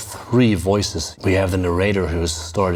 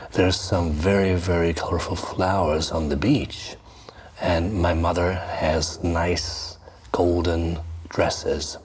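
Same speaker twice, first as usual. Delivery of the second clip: half-whispered, coaxing Elf King; a hint of a tempting spirit voice, soft and breathy; Elf King's lure; 3 dB quieter than usual. Teacher voicing the Elf King luring the child, lightly whispered. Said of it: "it's the Elf King talking".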